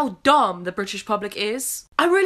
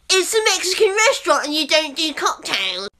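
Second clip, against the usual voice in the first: louder, higher mock indignation; outraged customer; 6 semitones higher, 5 dB louder than usual. Waitress imitating customer demanding margarita, loud mock outrage. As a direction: play the entitled customer. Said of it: "He goes".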